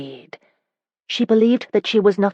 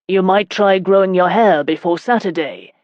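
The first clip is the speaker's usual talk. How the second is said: calling over shoulder; 5 dB louder than usual. A narrator's reading. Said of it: "Bradford called over his shoulder".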